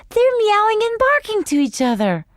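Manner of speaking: put-on high, thrilled little girl; delighted. A narrator's reading. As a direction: marvel at the animals. Delighted sister.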